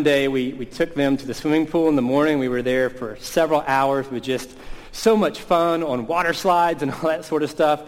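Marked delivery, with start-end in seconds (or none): 4.9-7.4 higher, enthusiastic lift; excited recounting. Retold or imitated. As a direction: play up how fun it was. Recounting a day packed with fun.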